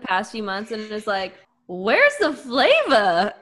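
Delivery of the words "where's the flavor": slow, stretched question; slow drawl. Retold or imitated. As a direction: draw the words out. Drawn-out quote.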